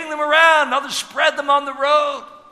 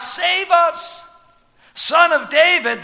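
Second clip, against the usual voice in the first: higher pleading call; crying out; 6 semitones higher, slower than usual. Retold or imitated. Preacher voicing the crowd's cry, raised. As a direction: lift the voice like the crowd. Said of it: "when the people cry out".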